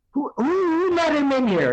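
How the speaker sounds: high-pitched mock British outrage; British accent. Dad telling story of schoolmate's father, mock British accent. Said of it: "so he had a British accent".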